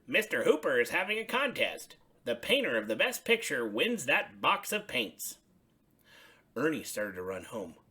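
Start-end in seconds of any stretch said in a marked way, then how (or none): 0.1-5.4 higher, louder friendly Bert. Acted. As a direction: voice Bert lifted up high. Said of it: "said Bert".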